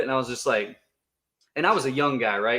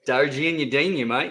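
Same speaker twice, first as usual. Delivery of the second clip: mock Australian. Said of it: "an Australian coin".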